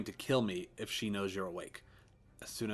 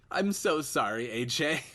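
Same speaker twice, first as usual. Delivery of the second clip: tearful apology; 6 semitones higher, 8 dB louder, slower than usual. Acted. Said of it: "tears coming out of my eyes".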